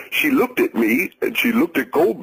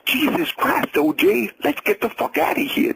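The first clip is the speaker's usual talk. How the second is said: voice cracking; 7 semitones higher than usual. A narrator's reading. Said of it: "his voice cracking".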